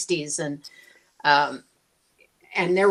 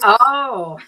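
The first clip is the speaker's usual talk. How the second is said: loud, higher-pitched drawn-out oh; sudden realization; 6 semitones higher, 6 dB louder than usual. Retold or imitated. Newcomer finally understanding the attendant, loud realization. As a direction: let the penny drop.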